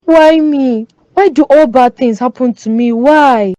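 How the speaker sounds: a touch of tearful despair; mild crying. Acted. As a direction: plead to the sky through light tears. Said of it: "Stop crying, Lydia".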